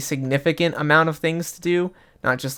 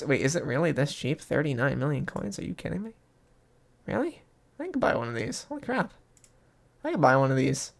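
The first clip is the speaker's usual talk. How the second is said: real hushed amazement, much softer; quiet disbelief; 8 dB quieter than usual. Real, not acted. Player finds a dragon pet unexpectedly cheap, softly incredulous. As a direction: murmur it, stunned, as if to yourself. Stunned by an unexpectedly low price.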